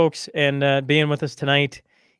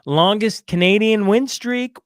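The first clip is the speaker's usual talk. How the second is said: raised, punchy sports-fan hype; excited boasting; 5 semitones higher, 5 dB louder than usual. Real, not acted. Fan celebrating the longest Canadian win streak, excited boasting. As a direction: crow it like a thrilled fan.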